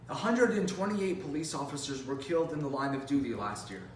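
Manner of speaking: measured, rehearsed introduction; formal speech. Acted. Speaker introducing a story of law officers, formal delivery. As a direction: present it like a competition speaker.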